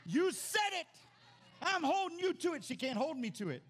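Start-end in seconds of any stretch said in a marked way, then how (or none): 0.1-2.6 high, loud teasing wife with a laugh; gleeful gotcha, laughing at him. Retold or imitated. Wife catching pastor's slip, loud laughing tease. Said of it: "She's like".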